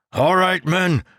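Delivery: high, loud strained order; ragged yell. Acted. Ten yelling to the crew, ragged shout. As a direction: yell it hoarse with effort. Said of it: "his voice ragged".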